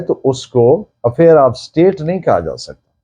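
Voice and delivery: usual speaking voice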